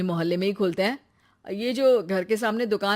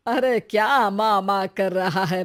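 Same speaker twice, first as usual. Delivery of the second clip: ordinary talk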